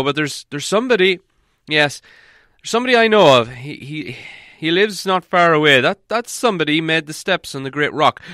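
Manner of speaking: the wizard thinking aloud, stumbling over words; Gandalf. Acted. Wizard explains their plight.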